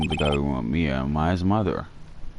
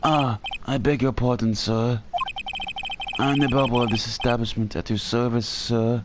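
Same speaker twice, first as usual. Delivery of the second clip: put-on higher, polite old-fashioned bellboy; Alfred voice; 5 semitones higher than usual. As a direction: play an eager, chirpy butler-type bellhop. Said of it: "So I'm gonna do the Alfred voice".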